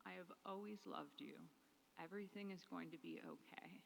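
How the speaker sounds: "Nana" called high and tender, then soothing; tender reassurance. Retold or imitated. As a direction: comfort her while holding her, with "Nana" lifted high. Took her in my arms.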